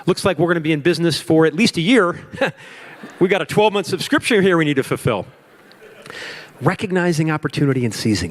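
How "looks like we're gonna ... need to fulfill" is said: excited. Retold or imitated. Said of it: "I said".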